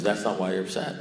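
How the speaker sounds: low and soft, unmoved; calm contradiction. Retold or imitated. Sponsor repeating himself to the baffled caller, calm and quiet. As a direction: repeat the verdict quietly, without any push.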